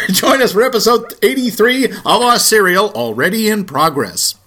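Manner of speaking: announcer line broken by laughter; laughing. Real, not acted. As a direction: laugh through the intro. Breaks up laughing mid-intro.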